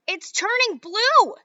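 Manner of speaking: high, loud, slow scream; mother screams as Violet turns blue. Acted. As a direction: draw the scream out in horror. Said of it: "screamed Missus Beauregard".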